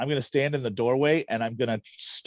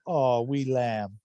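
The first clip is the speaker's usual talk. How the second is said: put-on Scottish accent; 2 semitones higher, slower than usual. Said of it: "with your best Scottish accent".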